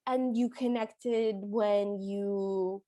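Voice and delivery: slow, drawn-out leading prompt. Retold or imitated. Gail feeds him his line, slow and leading. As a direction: stretch it out to coax him along. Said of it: "she's kind of leading him on".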